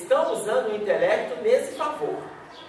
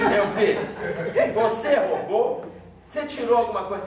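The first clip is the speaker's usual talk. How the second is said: gentle question. Retold or imitated. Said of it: "eu perguntei pra ele assim".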